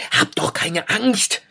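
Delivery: calm her as a tiny hare; high hare voice. A narrator's reading. Hare calls to frightened Eida, high and slow. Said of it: "rief er".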